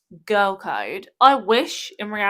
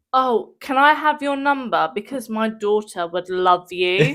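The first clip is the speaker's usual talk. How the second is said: imitated woman; slower than usual. Voicing woman approaching her partner.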